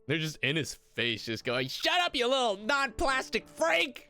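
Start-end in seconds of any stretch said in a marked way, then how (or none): 1.7-4.1 high-pitched, hammed-up bullying shout; mock angry yell. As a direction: yell it right in their face, exaggerated. Captors yell in Todd's face.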